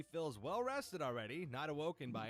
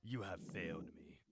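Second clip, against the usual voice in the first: disappointed voice; 9 semitones lower, 4 dB quieter than usual. Acted. Dog disappointed in its owner.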